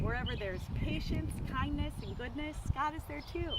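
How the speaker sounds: expressive storybook reading with measured pauses; story read-aloud. Acted. Sharing a book about God with listeners, story read-aloud.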